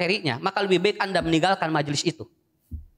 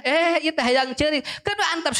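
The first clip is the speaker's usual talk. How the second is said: husband about to cry; 10 semitones higher than usual. Retold or imitated. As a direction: draw it out like a man holding back tears. Voicing the husband wanting to cry.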